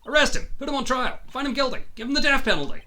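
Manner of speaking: high, loud demand for punishment; accusing shout. Acted. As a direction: yell each demand at the crowd. Character accuses in game scene.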